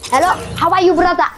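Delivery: cheerful fake Arabic accent greeting; mock Arabic accent. Boy greets a friend in a joking Arabic accent. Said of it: "I wanna go like an Arabic accent".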